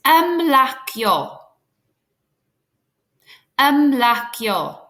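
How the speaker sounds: ymlacio said very slowly and carefully, syllable by syllable; slow careful ymlacio demo; slow Welsh model. Shown as a demonstration. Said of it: "can you say after me".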